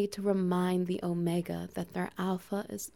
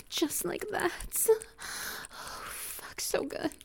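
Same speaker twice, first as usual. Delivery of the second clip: hushed whispered urging; 9 semitones higher, 5 dB quieter, slower than usual. Acted. Alpha whispering to his omega to breathe. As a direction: whisper it close, almost no voice.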